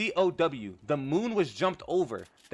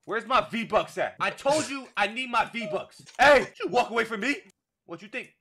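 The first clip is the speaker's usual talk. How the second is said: menacing collector; 7 semitones higher, 5 dB louder than usual. Pretend. Role-playing a debt collector.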